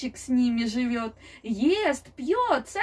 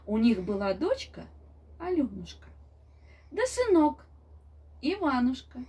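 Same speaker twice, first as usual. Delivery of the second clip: grandma telling fairy tale. A narrator's reading. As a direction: tell it like a grandmother at bedtime. (бабушка рассказывает сказку)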